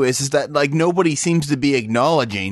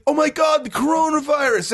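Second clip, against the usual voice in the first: mock panic; 10 semitones higher than usual. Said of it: "everybody's like".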